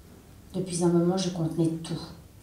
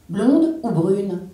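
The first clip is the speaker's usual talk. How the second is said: husband's offer; 9 dB louder, much slower than usual. Acted.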